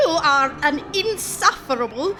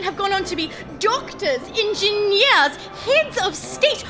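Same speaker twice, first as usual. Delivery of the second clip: rising, higher-pitched indignation; offended, emphatic listing; indignant; 5 semitones higher than usual. Acted. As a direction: list them proudly, climbing in outrage. Indignantly lists charity's achievements.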